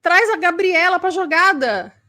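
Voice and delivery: somewhat aggressive tone. Acted. Immature person insisting that's just how she is, somewhat aggressive. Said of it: "usa um tom meio agressivo e fala".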